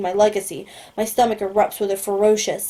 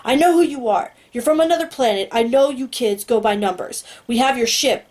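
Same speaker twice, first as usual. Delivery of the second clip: blasting voice; 3 semitones higher than usual. Acted. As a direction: let it blast through the speaker box. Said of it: "Agent Purdy's voice blasts into the box".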